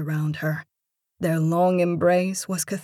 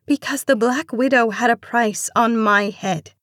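higher, distressed plea; lamenting; 5 semitones higher, 3 dB louder than usual. A narrator's reading. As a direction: lament your plight, fearful for family. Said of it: "she lamented".

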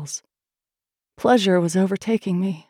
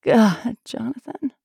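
crying out; 6 semitones higher, slower than usual. A narrator's reading. Woman calls to her lover in tears, crying out. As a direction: cry his name out, then soften. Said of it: "I cried".

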